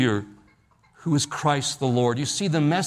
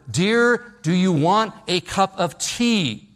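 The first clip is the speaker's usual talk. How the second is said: a louder, higher call; louder mock shout; 4 semitones higher, slower than usual. Husband in the doorway calling to his wife, louder mock shout. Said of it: "he says it even louder".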